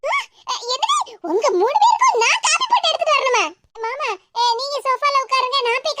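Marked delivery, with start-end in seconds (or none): 0.0-3.4 shocked disbelief. Acted. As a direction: react as if you can't believe the order. Ordered to make coffee. (அதிர்ச்சியுடன் நம்பமுடியாமல்)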